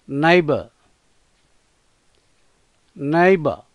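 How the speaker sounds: నైబర్ with the final r barely sounded; soft final r. Shown as a demonstration. Teacher showing students a barely voiced final r in neighbour. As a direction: say నైబర్ ending on a half-swallowed r. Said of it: "పలికి పలకనట్లుగా పలకాలి".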